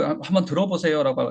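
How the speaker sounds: normal talking voice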